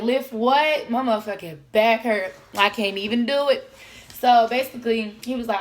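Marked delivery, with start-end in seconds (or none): 0.0-3.7 exaggerated mock complaint. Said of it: "You gotta be extra".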